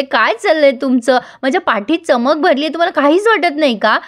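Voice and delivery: mildly acted irritation, pitch climbing; very annoyed. Sumi protesting that nobody cares about her back, mildly irritated. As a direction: complain indignantly with a rising voice. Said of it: "Sumi खूप चिडते आता".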